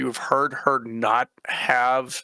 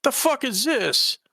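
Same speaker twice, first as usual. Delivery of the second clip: shocked; 9 semitones higher, slower than usual. Acted. Shocked reaction.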